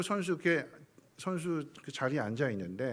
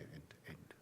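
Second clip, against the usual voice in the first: whispered; 12 semitones lower, 25 dB quieter than usual. Shown as a demonstration. Preacher teaching the word end to the congregation, whispered. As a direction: end breathed in an unvoiced whisper. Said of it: "끝은 end이에요".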